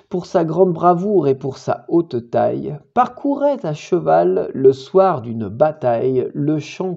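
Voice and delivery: measured, deliberate poem reading; poetry recitation. Acted. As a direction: recite verse with weighted phrases. Récite le poème. (récitation de poème posée)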